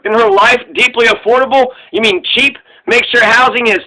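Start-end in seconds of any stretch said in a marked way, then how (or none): 0.7-2.6 scoffing question, repeating her phrase; sneering echo of her buzzword; incredulous. Shown as a demonstration. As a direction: echo it back in disbelief. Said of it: "Who the fuck talks like that?".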